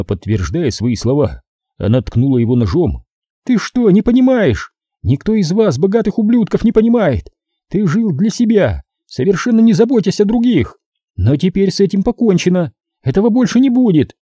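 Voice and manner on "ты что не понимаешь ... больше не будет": higher, taunting woman's voice full of contempt; gloating female captor. A narrator's reading. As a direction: sneer it at the rich man, pitched up. Captor's rant. (злорадная похитительница, высоким голосом)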